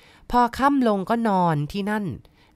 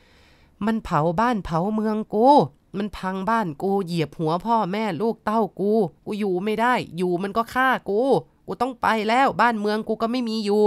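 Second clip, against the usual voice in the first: คร่ำครวญ; 4 semitones higher than usual. Retold or imitated. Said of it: "เสียงร้องไห้คร่ำครวญ".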